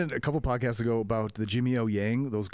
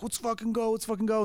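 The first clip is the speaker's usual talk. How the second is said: imitated threatening yell; 9 semitones higher than usual. Retelling angry customers threatening him, mock yelling. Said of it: "yelling at me, threatening me".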